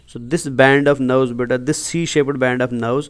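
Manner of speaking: each word spelled out very slowly for notes; slow it right down so students can write; slow dictation. Shown as a demonstration.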